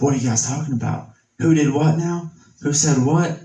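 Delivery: nosy busybody. Retold or imitated. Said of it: "somebody comes up".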